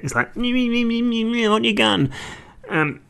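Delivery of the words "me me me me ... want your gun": squeaky strained grunting; bad acting. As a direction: overact the struggle badly. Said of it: "terribly acted bit".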